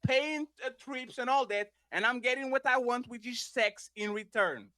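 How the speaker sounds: measured list with pauses; very slow. Shown as a demonstration. Listing the terms again for a dodging opponent, very slowly. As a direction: set out each item deliberately. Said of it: "I'm going to repeat it very slowly".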